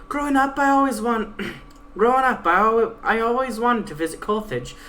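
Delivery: Pegasus. Acted. Pegasus taunting her guide, a lightly voiced cocky mare. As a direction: read the Pegasus as a cocky, defiant young mare.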